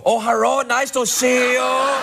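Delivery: mock Asian greeting. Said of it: "You go up to Asian people and go".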